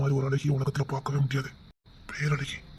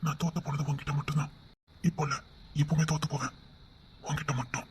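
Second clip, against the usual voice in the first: softer, hushed and sincere; tender confession; 7 dB quieter than usual. Acted. Husband confessing love to his wife, soft tender voice.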